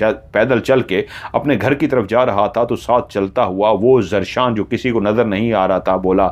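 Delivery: usual speaking voice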